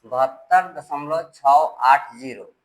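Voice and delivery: slow, separated "छः आठ zero"; "छः आठ zero" spaced out as single digits. Shown as a demonstration. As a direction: read "छः", "आठ", "zero" one at a time, slowly. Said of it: "एक एक करके पढ़ते हैं".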